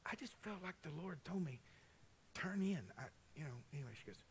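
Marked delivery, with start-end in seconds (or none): 0.1-2.8 whispered, almost no voice; hushed whisper. Retold or imitated. Telling Lamai about God's prompt in a whisper. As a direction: let it out as a secret.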